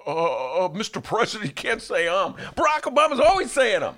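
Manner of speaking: mock critic correcting the president's ums; Yoda critiquing. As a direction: lecture the president like a fussy critic. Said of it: "Yoda would then critique him".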